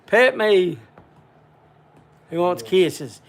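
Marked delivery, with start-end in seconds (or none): 0.1-0.8 high, slow, pleading dog voice; squeaky pleading voice for the pet dog; voicing the dog. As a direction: beg like the dog wants petting. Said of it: "Max like".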